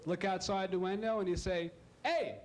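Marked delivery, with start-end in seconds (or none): 2.0-2.4 mock yell at a cow. Shouting at the cow.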